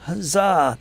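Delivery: full-voiced, hearty huzzah; loud cheer. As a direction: shout it like a rallying cry. Repeats the cheer.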